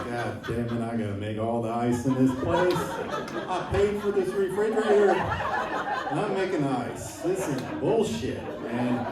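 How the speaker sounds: hammed-up annoyed grumble over the ice chore; mock grumbling rant. Comic telling himself off about the fridge, mock annoyed rant. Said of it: "I was pretty pissed off about it".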